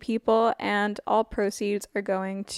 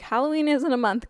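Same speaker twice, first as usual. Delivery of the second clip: voice cracking up an octave; 4 semitones higher than usual. Real, not acted. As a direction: voice cracks mid-sentence. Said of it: "Oh, my voice just cracked".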